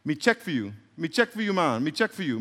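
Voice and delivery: lilting Jamaican patois; demonstrated Jamaican patois phrase. Shown as a demonstration. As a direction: say it like a Jamaican speaker. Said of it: "And in patois, if I say".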